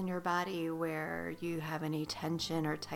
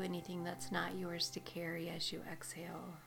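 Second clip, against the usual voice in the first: soft spa whisper; 5 dB quieter than usual. Acted. Meditation guide on the exhale.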